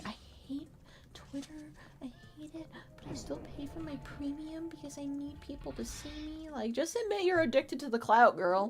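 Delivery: quiet whisper. Mocking accounts that complain about Twitter yet pay for premium: whispering. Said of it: "you were whispering that".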